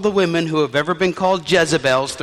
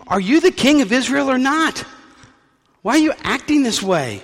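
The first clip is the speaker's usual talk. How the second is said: high, louder scolding; scolding wife; 9 semitones higher, 4 dB louder than usual. Acted. Wife scolds the sulking king, high and louder. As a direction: scold him like a fed-up wife. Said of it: "She said".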